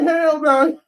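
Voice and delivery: high, loud mock refusal; hammed-up high-pitched refusal; mock Woody. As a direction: squeal a cartoonish hell no. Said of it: "He like".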